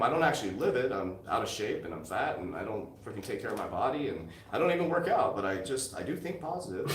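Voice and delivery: sarcastic fake-guru rant; facetious mockery. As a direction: play the hypocrite guru. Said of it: "I'm being facetious and rude".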